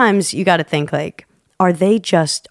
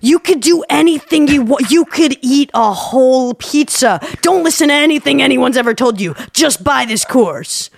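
salesman voice; 6 semitones higher than usual. Retold or imitated. Mocking a course salesman.

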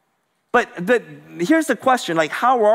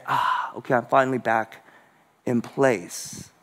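relieved sigh; 5 semitones lower, 4 dB quieter than usual. Retold or imitated. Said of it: "your soul could say".

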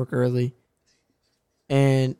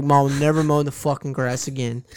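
laughing. Retold or imitated. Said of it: "I was like".

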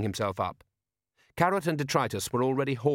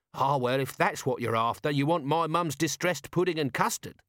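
lightly voiced scruffy corporal, rising higher; chatty Nobby; 4 semitones higher than usual. Nobby suggesting another of mum's dishes, chatty. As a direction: offer it up helpfully. Nobby answers his sergeant.

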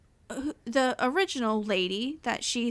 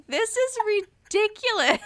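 high, loud incredulous cry; mock outrage; 10 semitones higher, 4 dB louder than usual. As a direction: shout your disbelief at the photo. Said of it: "I was like".

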